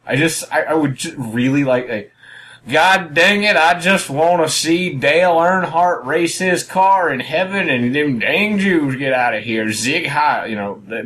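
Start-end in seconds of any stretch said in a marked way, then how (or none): 2.7-10.5 slow, hammed-up redneck drawl; redneck accent. Co-host imagining a redneck German neo-Nazi, redneck drawl. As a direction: put on a mock hick accent. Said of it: "redneck German neo-Nazi".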